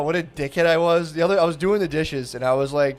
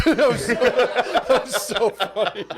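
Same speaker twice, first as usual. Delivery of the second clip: slow words broken by laughter; real laughter over the words; laughing through words; 7 semitones higher, slower than usual. Real, not acted. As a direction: say it while cracking up. Laughing while recalling.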